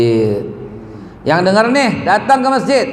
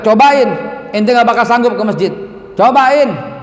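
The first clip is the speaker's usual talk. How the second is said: emphatic, higher-pitched dare; retold challenge; 5 semitones higher than usual. Ustaz dares youth to try the mosque, challenging. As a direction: throw down the dare with raised pitch. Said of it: "aneh tantang".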